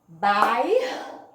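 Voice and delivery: "Bairro" broken up, first beat loud and rising; loud, stretched syllables of "Bairro"; clapped syllable demo. Shown as a demonstration. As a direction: punch out "Bairro" beat by beat for counting. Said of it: "Vamos aqui pras palmas".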